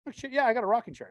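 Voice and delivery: high and loud surprised delight; mock-excited shout over the chair; excited outburst. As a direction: burst out thrilled at the find. Finds the rocking chair.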